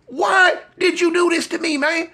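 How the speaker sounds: very high, laughing, pleading whine; begging his friend, very high and laughing. Retold or imitated. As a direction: squeal it out in laughing disbelief. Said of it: "I'm like".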